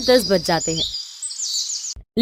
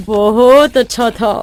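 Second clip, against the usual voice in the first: forced approval. Acted. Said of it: "अपनी ही मुंह का स्वाद बिगाड़ना पड़ता है".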